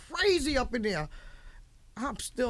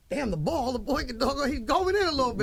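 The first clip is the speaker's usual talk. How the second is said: higher, building enthusiasm; impressed excitement; 7 semitones higher, 4 dB louder than usual. Retold or imitated. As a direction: hype him up, rising and louder at the end. Acted delighted reaction to his records.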